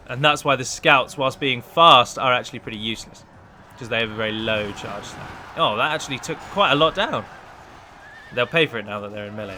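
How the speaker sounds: ordinary talk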